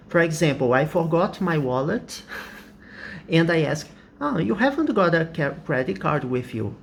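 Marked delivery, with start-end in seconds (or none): 4.2-6.8 a real question with a rising tag; real question tune. Shown as a demonstration. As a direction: have you rising at the end. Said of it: "goes up instead of going down".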